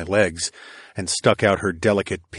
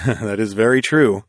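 chuckling. A narrator's reading. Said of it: "I chuckled".

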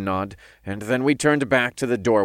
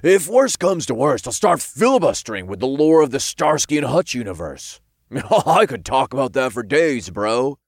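higher, lively imp boasting; boastful imp; 5 semitones higher, 4 dB louder than usual. A narrator's reading. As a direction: pitch it up, bragging to a bro.

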